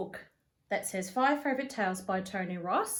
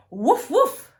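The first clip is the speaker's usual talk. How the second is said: loud, high woofing like a dog; barking dog; 7 semitones higher, 11 dB louder than usual. Acted. Jessie barks at Dad through the door, loud and high. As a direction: bark it out cheekily like a puppy.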